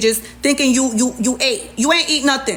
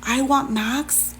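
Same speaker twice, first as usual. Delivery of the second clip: stunned disbelief; 5 dB quieter, much slower than usual. Real, not acted. Stunned aside.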